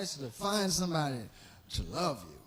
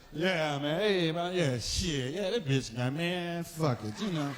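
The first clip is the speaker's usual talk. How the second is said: barroom tough talk; 4 semitones lower than usual. Retold or imitated. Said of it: "we go out in the bars and talk shit".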